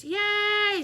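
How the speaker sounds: high, loud delighted cheer; cheering girls. A narrator's reading. Girls cheer for the new teacher, high and loud. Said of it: "said all the girls".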